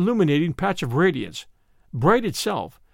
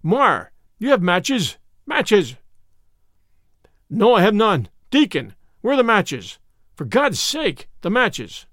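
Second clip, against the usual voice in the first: urgent panic; 3 semitones higher, slower than usual. Acted. Panicked demands for matches in darkness.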